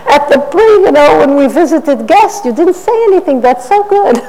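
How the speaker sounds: put-on high sing-song praise for a little girl; praising a child. Mother praising her daughter in high sing-song. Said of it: "I found myself saying to my own daughter".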